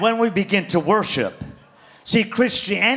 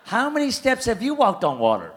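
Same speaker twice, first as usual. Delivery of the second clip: laughing retort; 5 dB quieter than usual. Retold or imitated. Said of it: "I'm like".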